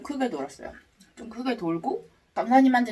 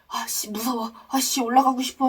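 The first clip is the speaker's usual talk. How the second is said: whispered fear rising to a cry; frightened, wanting to go up; scared whining; 5 semitones higher than usual. Retold or imitated. Retold panicked thought.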